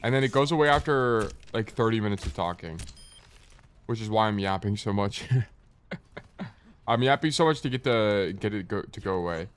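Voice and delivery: blocked nose, nasal voice. Real, not acted. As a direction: talk through a stuffy nose. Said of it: "I got, like, a nasally voice now".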